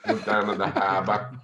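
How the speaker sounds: New England accent, "harbor" without r's; playing up a New England accent. Shown as a demonstration. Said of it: "New Englander accent".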